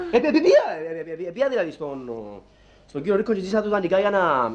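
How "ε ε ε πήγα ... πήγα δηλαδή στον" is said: nervous laughing stammer. Acted. Flustered stammer about borrowing money.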